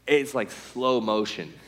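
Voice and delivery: drawn-out slow-motion telling; slowed right down. Retold or imitated. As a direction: stretch the words as time slows. Pitch seen in slow motion.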